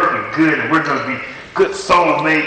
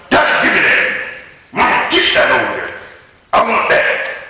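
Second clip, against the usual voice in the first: put-on demanding child. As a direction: play a greedy kid grabbing. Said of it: "You ever seen a child come".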